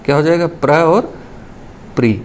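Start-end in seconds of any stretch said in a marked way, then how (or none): 0.5-0.7 प्र said as a single cluster pra; teacher models प्र cleanly; demonstrating pr sound. Shown as a demonstration. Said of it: "इसी को पढ़ेंगे". 2.0-2.2 प्री with a long ee ending; teacher models प्री with a falling close; demonstrating pri sound. Shown as a demonstration. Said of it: "इसी को पढ़ेंगे".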